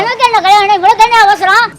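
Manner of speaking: angry retort. Acted. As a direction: snap back at him. Brother repeats angry retort.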